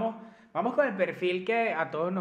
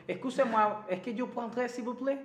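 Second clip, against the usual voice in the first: a light, playful put-on French accent; mock French accent; 5 semitones higher than usual. Answering a French client in a half-hearted French accent. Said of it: "el acento francés".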